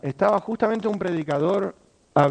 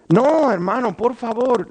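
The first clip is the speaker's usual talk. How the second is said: earnest protest; 5 semitones higher, 5 dB louder, slower than usual. Retold or imitated. Brother protests warmly.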